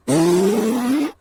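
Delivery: a light jolly Santa chuckle. A narrator's reading. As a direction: boom out a jolly ho ho ho. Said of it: "said Santa".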